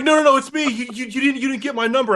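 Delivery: high, stammering mock plea; frantic caller. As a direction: plead desperately to be believed, tripping over words. Acts out frantic caller pleading.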